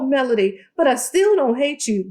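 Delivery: high put-on voice, imitating; hammed-up high sweetness; mock Tisha. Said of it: "and Tisha's like".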